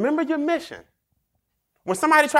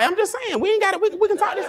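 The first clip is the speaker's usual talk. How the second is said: backing down; 10 semitones higher than usual. Retold or imitated. Man who can't fight backing down from a rival, higher mock plea. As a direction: talk your way out of a fight. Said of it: "People that can't fight".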